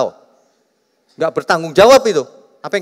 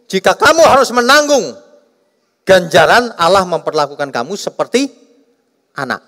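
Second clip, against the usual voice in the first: raised, loud reading of the verse; scripture reading; 5 semitones higher, 4 dB louder than usual. Acted. Preacher reading a Bible verse to the congregation, raised and declaiming.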